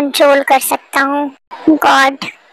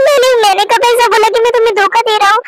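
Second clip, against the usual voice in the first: flustered protest; 5 semitones higher, faster than usual. Acted. Husband defends himself, flustered.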